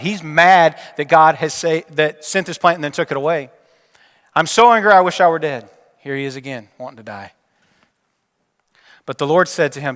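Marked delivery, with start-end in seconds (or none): 4.3-5.7 louder and higher, a sulking prophet's outburst. Acted. Jonah snapping back at God in anger, loud and higher. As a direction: spit it out like a furious, self-pitying prophet.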